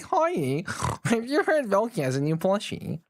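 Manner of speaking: a lightly voiced cartoon dog; chirpy mock doorstep greeting, barely changed; a hint of a goofy cartoon voice; Scooby-Doo impression. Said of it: "That was a good Scooby-Doo impression".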